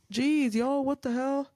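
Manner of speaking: high, teary outburst at herself; jeez, caught off guard by her own crying; tearful exasperation. Real, not acted. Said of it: "I've also been a wreck".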